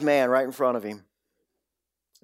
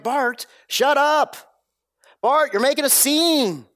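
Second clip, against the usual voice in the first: annoyed crowd; 12 semitones higher, 5 dB louder than usual. Retold or imitated. Preacher mimicking the crowd shouting Bart down, high and loud. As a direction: hush the beggar like an irritated crowd. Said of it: "they're like".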